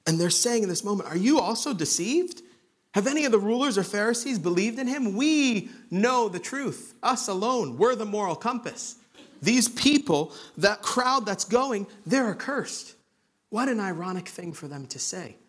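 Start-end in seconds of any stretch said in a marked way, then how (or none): 1.1-13.0 higher-pitched, self-righteous Pharisee indignation; acted prideful scorn. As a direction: play the proud leaders looking down on the crowd. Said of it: "that's how pride plays out".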